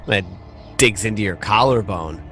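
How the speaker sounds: normal talking voice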